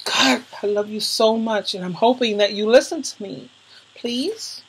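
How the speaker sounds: softened, heartfelt plea; real emotion, held back and hushed; getting emotional. Real, not acted. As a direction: plead quietly, moved by love. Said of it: "I'm getting emotional because".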